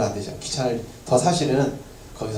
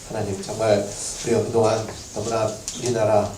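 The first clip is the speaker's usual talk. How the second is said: earnest prayer. Acted. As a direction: pray humbly, confessing. Pastor begins leading prayer.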